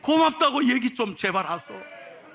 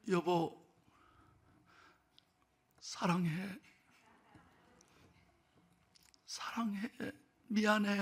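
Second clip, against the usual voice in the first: dying man's whisper; 9 dB quieter, slower than usual. Retold or imitated. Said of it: "경상도 분입니다".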